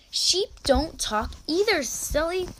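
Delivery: high-pitched, mildly impatient retort. A narrator's reading. Eliezer scolds Mary about talking sheep, mildly impatient. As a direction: chide with a touch of impatience. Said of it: "Eliezer was getting impatient".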